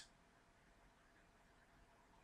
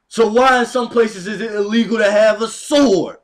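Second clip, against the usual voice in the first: getting too angry; 2 semitones higher, 5 dB louder than usual. Real, not acted. Man ranting to viewers about arms, building real anger. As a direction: preach it harder and harder until he nearly blows his top. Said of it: "But I'm getting too angry".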